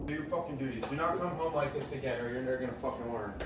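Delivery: very low, cold growl; deep menacing voice. Real, not acted. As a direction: drop the voice way down, threatening. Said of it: "Why are you talking like that?".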